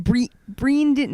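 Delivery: slow, high, botched accent attempt; vowels pushed toward New Zealand "Breendin"; New Zealand-sounding accent. Co-host fumbles the name into New Zealand accent. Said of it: "that sounded like a New Zealander".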